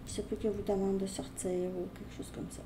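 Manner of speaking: confiding whisper. Real, not acted. Confiding a possibility to viewer.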